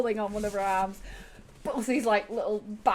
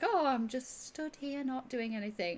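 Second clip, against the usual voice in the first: feigned nonchalance; 5 semitones higher, 4 dB quieter than usual. Acted. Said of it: "pretense of being like".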